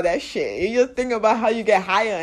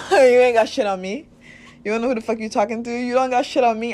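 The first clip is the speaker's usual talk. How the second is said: laughing defiance, growing louder; defiant to demons; 6 dB louder than usual. Pretend. Host acts out telling off her demons, cocky and defiant. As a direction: tell your demons off to their face. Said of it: "look them in the eyes and say".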